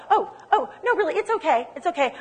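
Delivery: acting out awkward self-conscious protest; embarrassed. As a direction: wave off the attention, embarrassed. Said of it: "I was embarrassed".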